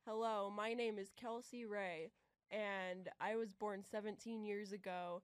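flat robotic voice. Real, not acted. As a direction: sounds like a robot talking. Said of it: "Why do you sound so robotic?".

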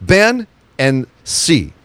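"ben and si" spelled out slowly, each Gaelic word set apart; careful Gaelic pronunciation. Shown as a demonstration. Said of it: "comes from two Irish Gaelic words".

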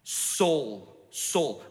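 low, unhurried name-calling; God's intimate call, pitched low. Acted. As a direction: call each name tenderly, letting it fall. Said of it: "it's really intimate".

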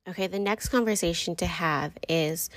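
breathy stage whisper, hushed. Real, not acted. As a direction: drop to a secret whisper. Aside to viewers, whispered.

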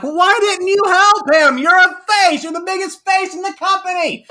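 high, loud exasperated yell; yelling at Seth. Retold or imitated. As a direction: yell it at him in disbelief. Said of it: "And I'm like".

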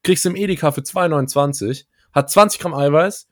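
light Hamburg dialect sales pitch; Hamburg accent. Pretend. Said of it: "dass du dann in so einen Hamburger Dialekt verfällst".

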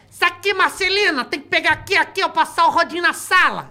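high, hammed-up cleaning lady voice; squeaky high bossy maid; Paulo Gustavo voice. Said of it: "era a faxineira, ele fazia".

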